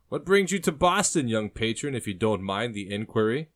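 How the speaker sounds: lightly voiced nosy barkeep, starting high and loud; pry politely, lifting the end; inquisitive barkeep. Chatty barkeep questions the customer.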